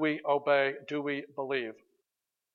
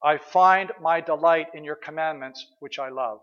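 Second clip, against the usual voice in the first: scripture recital. Acted. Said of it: "the psalmist who wrote".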